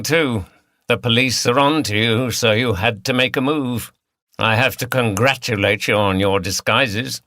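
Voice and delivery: lightly voiced Cockney villain; a hint of Cockney, harsh and taunting; Cockney accent. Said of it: "He spoke in a Cockney accent".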